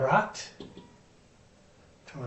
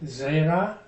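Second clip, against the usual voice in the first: "zera" stressed on its first syllable. Shown as a demonstration. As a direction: say "zera" with the accent up front, on "ze". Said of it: "the accent is on the first syllable".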